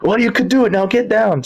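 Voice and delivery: hammed-up bouncer shouting up at him; big deep voice. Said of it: "with a big, deep voice".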